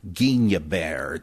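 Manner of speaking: "Guignebert" as geen-yuh-BAIR, slowly; French pronunciation. Shown as a demonstration. Repeating the teacher's version, "Guignebert" as geen-yuh-BAIR. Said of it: "you'd say Guignebert".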